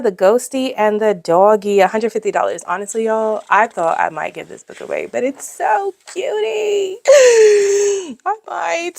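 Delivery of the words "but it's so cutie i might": mock crying. Pretend sob over giving book away.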